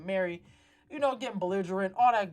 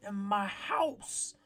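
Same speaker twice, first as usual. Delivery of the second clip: stern queen; 3 semitones higher than usual. Retold or imitated. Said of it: "the queen 'cause she said".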